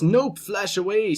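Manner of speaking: a quick playful take on the champion dodging; voicing Irelia. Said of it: "says the Irelia".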